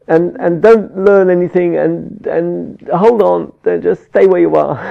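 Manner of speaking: mildly urgent acted appeal; pleading. Telling a child not to learn anything, mildly pleading. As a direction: keep pleading, easing off slightly. Plea to child continues, easing.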